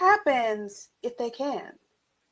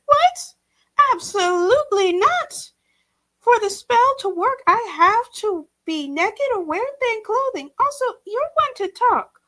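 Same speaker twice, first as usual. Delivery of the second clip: higher, flustered and defensive; flustered surprise; 10 semitones higher than usual. A narrator's reading. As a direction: protest in startled embarrassment. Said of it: "heart leaped".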